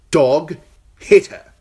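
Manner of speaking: high, loud, imperious order; commanding shout. Acted. King ordering his guard to strike her, loud.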